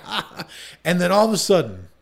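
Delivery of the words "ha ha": high mock villain laugh; imitated laughing. Imitating the spellcaster laughing as he sets himself alight, mock laughter. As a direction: laugh like a spellcaster who thinks he's invincible. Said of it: "He's just laughing".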